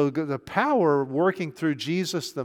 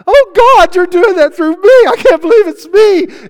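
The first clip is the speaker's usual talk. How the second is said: much higher and louder, ecstatic tearful cry; crying believers; 17 dB louder than usual. Retold or imitated. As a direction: wail it like overwhelmed believers. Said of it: "they were all crying".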